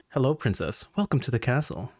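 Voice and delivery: low, composed princely greeting; straight-faced drunk host. Pretend. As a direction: hold it together and greet smoothly. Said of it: "drunk in the eyes, but I gotta keep a straight face".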